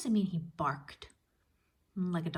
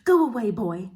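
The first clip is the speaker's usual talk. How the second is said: put-on loud, higher shout at the boy; angry shout; 5 semitones higher, 13 dB louder than usual. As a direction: yell him off the doorstep. Giantess shoos Jack away.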